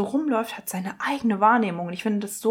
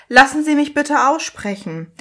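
imitated testy demand, raised pitch; annoyed pharmacist; 4 semitones higher, 4 dB louder than usual. Pharmacist to interrupting customer, mock irritated. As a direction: firmly cut off the interruption. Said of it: "Energie hier wirklich grad am Tiefpunkt".

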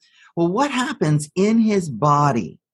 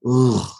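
deflated groan; 2 semitones lower than usual. Shown as a demonstration. Imitates collapse into shutdown.

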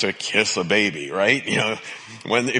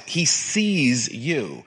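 tender assurance; much slower than usual. Real, not acted. Repeated assurance, slowed.

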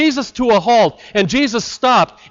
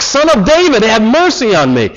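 unrestrained retold cry. Preacher repeats blind beggar's plea to Jesus, shouted cry. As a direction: cry it out, holding nothing back. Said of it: "as if nothing could be held back".

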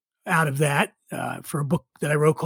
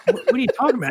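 laughing, incredulous question; laughing disbelief; 7 semitones higher, much faster than usual. Retold or imitated. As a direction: laugh through the words in disbelief. Retold disbelief at free trip offer.

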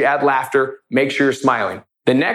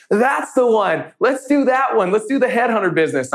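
squeaky high imitation of a giggly client; imitating Eunice laughing along; 8 semitones higher than usual. Eunice taking up the headhunter joke, high and giddy. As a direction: pitch way up, playing her as tickled by the joke. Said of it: "She's like".

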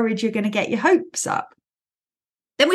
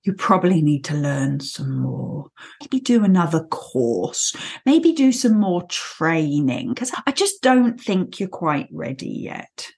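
protective Kanga; 5 semitones lower than usual. Retold or imitated. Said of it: "Kanga's the one that says".

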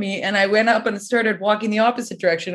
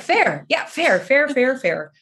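higher, resigned repeated fair; sheepish agreement; 4 semitones higher, slower than usual. Retold or imitated. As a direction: concede it quickly again and again. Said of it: "you're like".

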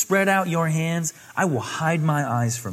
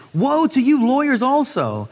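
loud, higher proclaiming woe; louder prophetic denunciation; Jesus' woe; 6 semitones higher, 6 dB louder than usual. Acted. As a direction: declare it with force. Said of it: "And Jesus said".

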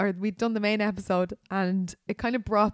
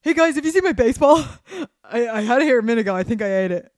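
chirpy California surfer dude greeting the guys; Californian surfer dude; 3 semitones higher, 7 dB louder, faster than usual. Retold or imitated. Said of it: "I think he'd sound like".

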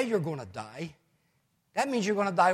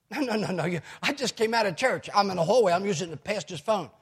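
insistent, higher and louder phone protest; flustered protest; 3 semitones higher, 5 dB louder than usual. Retold or imitated. Woman protesting to pastor on church phone, flustered. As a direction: imitate her loud, worked-up objection.

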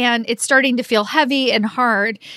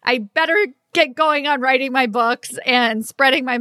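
excited; 2 semitones higher than usual. Retold or imitated. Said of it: "I'm like".

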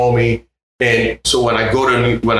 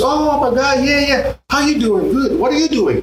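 Jorge quote, higher. Retold or imitated. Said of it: "he goes".

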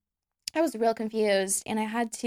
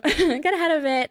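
laughing; 7 semitones higher, 4 dB louder than usual. Real, not acted. Laughs over the retake.

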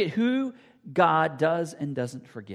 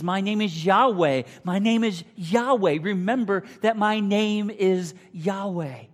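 loud booming call, higher; emphatic proclamation; 4 semitones higher, 8 dB louder than usual. Acted. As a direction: proclaim the name like a herald. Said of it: "he emphatically calls out".

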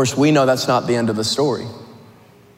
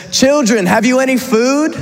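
higher-pitched call across a distance; 8 semitones higher than usual. Acted. Voice from the beach hailing fishermen on a boat, calling out. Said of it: "they hear a voice call out to them".

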